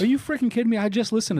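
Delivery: high, loud burst of disbelief; excited disbelief. Real, not acted. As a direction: blurt it out, thrilled and stunned. Hears of James Clear podcast.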